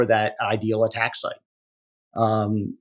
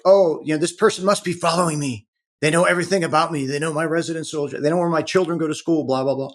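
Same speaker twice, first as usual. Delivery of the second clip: higher, mock-panicked client voice; lightly acted alarm, pitched up; imitating freaked-out clients; 5 semitones higher than usual. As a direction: rattle off worries like a panicking client. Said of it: "they're freaking out".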